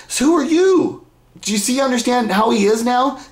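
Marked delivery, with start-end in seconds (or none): 0.1-1.0 high-pitched mock scorn; dismissive father. Father sizing up his son, high mock dismissal. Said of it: "That's how he looks at him".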